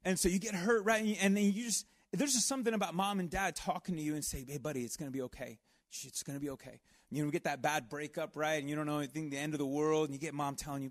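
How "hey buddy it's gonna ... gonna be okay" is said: comforting parent. Retold or imitated. Parent comforting hurt child.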